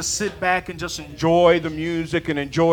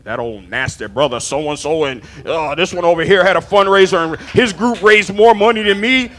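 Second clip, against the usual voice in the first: mock gossip; 3 semitones lower, 5 dB louder than usual. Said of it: "People were like".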